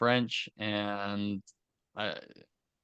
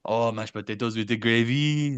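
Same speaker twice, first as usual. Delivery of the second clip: put-on French accent. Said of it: "we doing French accents".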